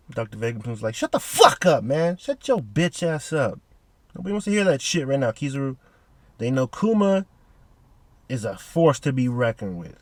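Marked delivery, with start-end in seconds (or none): 1.0-5.8 imitating an irritated scientist; mock angry snap. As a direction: cut him off, annoyed. Vegapunk snapping at Kizaru.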